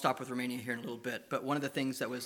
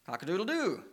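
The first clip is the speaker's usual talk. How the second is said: rooster crow; 4 semitones higher than usual. Shown as a demonstration. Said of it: "our roosters say what".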